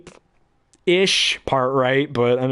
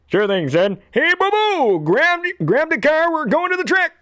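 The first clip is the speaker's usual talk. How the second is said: very high, excited cartoon voice; cartoon sidekick; 4 dB louder than usual. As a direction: squeal it out eagerly. Answers himself as second character.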